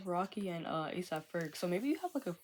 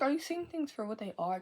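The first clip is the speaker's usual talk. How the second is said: excited quote; 8 semitones higher, 4 dB louder than usual. Retold or imitated. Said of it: "It's like".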